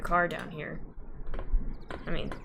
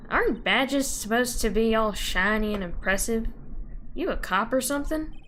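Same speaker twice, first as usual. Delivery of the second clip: Southern woman. Acted.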